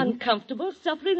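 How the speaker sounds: mocking incredulous repeat; scornful echo. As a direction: throw the words back in disbelief. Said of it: "I hate to think of her being uncomfortable and, and perhaps suffering".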